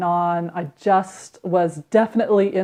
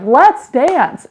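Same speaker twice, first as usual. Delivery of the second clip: excited call; 7 semitones higher, 6 dB louder than usual. Retold or imitated. Mom suddenly decides to dance.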